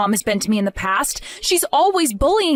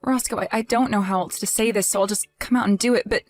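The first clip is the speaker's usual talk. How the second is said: sad and quiet; 3 semitones lower, 3 dB quieter than usual. Acted. Tells husband of miscarriage.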